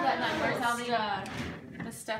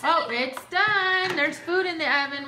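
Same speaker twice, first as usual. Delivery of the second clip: playful excitement; 5 semitones higher, 6 dB louder than usual. Pretend. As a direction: play-act a delighted discovery. Playing house, acted surprise.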